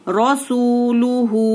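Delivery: रसूलुहु recited slowly with a heavy R and stretched vowels; slow recitation. Shown as a demonstration. Teacher reciting for class to repeat, slowly. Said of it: "तमाम rules को बार बार दोहराना है".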